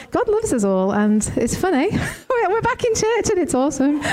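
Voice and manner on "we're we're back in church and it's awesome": laughing high while talking. Real, not acted. Co-pastor giggling after going off script. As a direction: giggle through the words.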